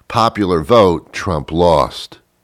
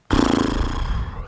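horse snort; 8 semitones lower, 5 dB quieter than usual. Acted. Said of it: "That's my impression of a horse".

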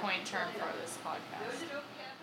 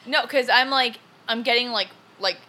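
loud comic fury building to gaslight rage; mock rage; 10 dB louder than usual. Real, not acted. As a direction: get louder and drag out "gaslight rage". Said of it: "I, like, have rage right now".

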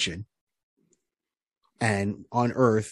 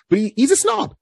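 scornful emphasis; 14 semitones higher, 6 dB louder than usual. Real, not acted. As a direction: pitch jumps high on snob. Mocking a snobbish hero.

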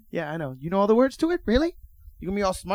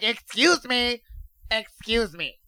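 mock Wisconsin accent; 4 semitones higher, much slower than usual. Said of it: "That wasn't even a Wisconsin accent".

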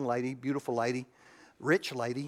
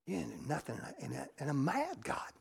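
quiet bitter; 7 dB quieter than usual. Real, not acted. Quiet confession of anger.

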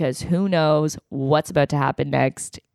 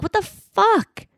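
high, slow, stunned outburst; shocked what-the-hell; disbelief; slower than usual. Real, not acted. Outraged at dad's text logic.

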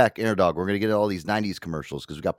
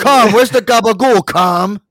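booming mobster yell, much higher and louder; mock mobster shout; 10 semitones higher, 11 dB louder, slower than usual. Imitating a mob boss hollering at his kid about the gabagool, loud yell. Shouting Tony Soprano bit.

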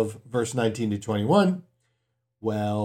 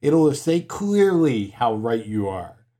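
mock yell; 4 dB louder, slower than usual. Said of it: "if you yell".

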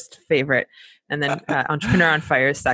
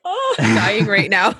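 mock motherly dismay; 2 semitones higher, much slower than usual. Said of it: "The mom in me is like".

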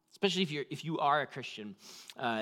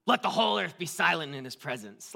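stern and louder, like an angry God; angry reading; 2 semitones higher, 5 dB louder than usual. Shown as a demonstration. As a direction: read the verse as a harsh rebuke. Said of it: "Does it sound like anger?".

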